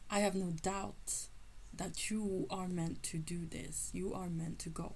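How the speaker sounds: teacher quoted. Retold or imitated. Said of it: "And he said".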